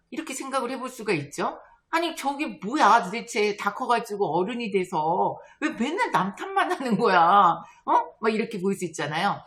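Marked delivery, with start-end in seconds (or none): 1.9-7.9 mock exasperated grumble; exasperated griping. Onlooker judging a grown-up who blames others, exasperated griping. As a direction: grumble in disbelief, ending on a loud push.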